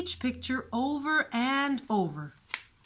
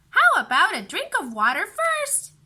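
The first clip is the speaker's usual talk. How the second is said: put-on high, louder child voice; sly little girl; 8 semitones higher, 7 dB louder than usual. A narrator's reading. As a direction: wheedle like a little sister stalling. Beatrice voiced by narrator.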